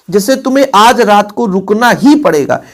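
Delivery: ही pressed firmly; emphatic ही in रुकना ही पड़ेगा; stress on ही. Shown as a demonstration. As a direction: lean on the word ही. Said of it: "जोर दे दिया गया".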